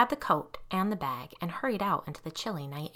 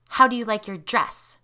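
icy tone; 3 semitones higher, 7 dB louder than usual. Acted. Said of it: "Tanya asked in an icy tone".

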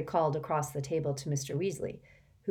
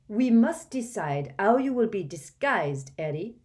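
put-on French accent; 5 semitones higher, 5 dB louder than usual. Fleur tells Harry about his wedding disguise, French accent. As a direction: speak with a light French lilt.

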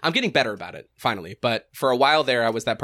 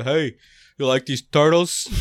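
mock pitch; 3 semitones higher, 6 dB louder, slower than usual. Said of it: "People really wanted to hear about".

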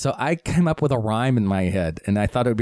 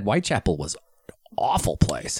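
whispering; 3 semitones lower than usual. Real, not acted. Dark aside about Whitechapel.

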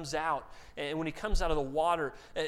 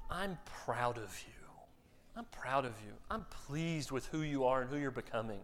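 tender fatherly; 3 semitones lower, 4 dB quieter than usual. Retold or imitated. A dad telling child he's proud.

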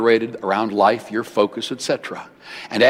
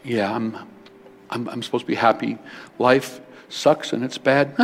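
mopey mock complaint, trailing off; mock gloomy grumble. Pastor mocking gloomy churchgoers, mopey mock grumble. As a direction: imitate a reluctant, joyless believer. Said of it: "some people kinda go like this".

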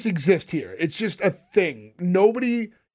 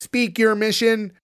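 alien voice; 4 semitones higher, slower than usual. Retold or imitated. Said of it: "I love you doing the voice".

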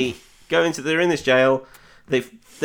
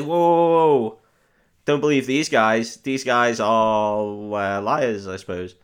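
mock alarm; slower than usual. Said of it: "he's just like".

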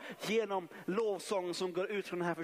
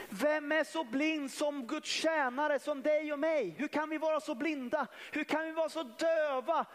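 higher, pleading build on every question; impassioned preaching; 7 semitones higher than usual. Acted. Preacher challenging the church, impassioned and rising. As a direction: press the rhetorical questions home, rising in passion.

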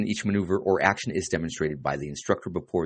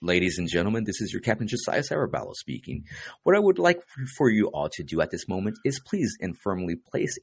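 captain announcement; 2 semitones higher than usual. Pretend. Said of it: "This would be me".

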